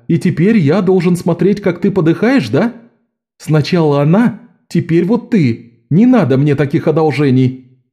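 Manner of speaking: high, pained, near tears; grief-stricken. A narrator's reading. Jean refuses Locke's sacrifice, near tears. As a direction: push him away through rising grief. Jean grieving, about to sob.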